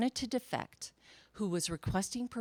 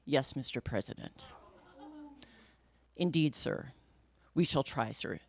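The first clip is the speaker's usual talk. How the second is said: stiff agent voice; 6 semitones lower, 3 dB quieter than usual. Retold or imitated. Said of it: "he says".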